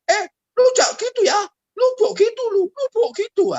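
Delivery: high, loud indignant yell at the driver; angry yelling. Retold or imitated. Biker yelling at the car driver, high and loud. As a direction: shout him down, outraged.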